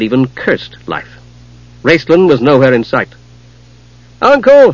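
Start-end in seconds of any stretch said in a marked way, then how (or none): 4.2-4.7 loud, high call. Acted. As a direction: call out across the grey. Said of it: "Palin started to call".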